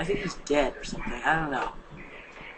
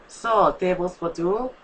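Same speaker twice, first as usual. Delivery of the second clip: put-on Russian accent; 2 semitones higher, 4 dB louder, slower than usual. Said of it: "in a unique Russian accent".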